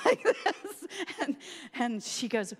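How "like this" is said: high, loud reenacted squeal; high mock. Showing the friend lost in powder, high squeal. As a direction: squeak it in a put-on voice.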